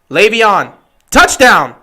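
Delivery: loud, excited touchdown shout; touchdown call. Real, not acted. Fan announcing the touchdown to viewers, a loud burst. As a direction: shout it as he crosses the line.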